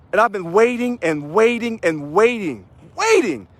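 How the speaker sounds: milk the suspense; stretched build-up. Real, not acted. Building up to announce.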